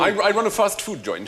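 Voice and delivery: fast food man gone posh English; posh English accent. Acted. Server telling customer the job, posh English. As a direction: answer in borrowed upper-class English. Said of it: "now I've got your accent".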